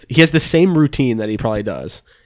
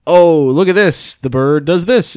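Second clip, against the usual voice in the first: carnival guy; 5 semitones higher, slower than usual. Retold or imitated. Carnival guy showing tourists his bird trick, slow showman pitch. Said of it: "like, carnival guy".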